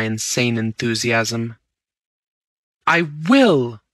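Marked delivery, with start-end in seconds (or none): 2.9-3.8 cried with an oath. Acted. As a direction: fling out the vow defiantly. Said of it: "I cried with an oath".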